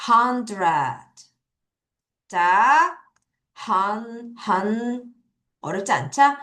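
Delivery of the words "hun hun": hun said alone as a separate syllable; first syllable hun on its own; syllable demo. Shown as a demonstration. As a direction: isolate hun, slowly and clearly. Teacher breaks word into syllables.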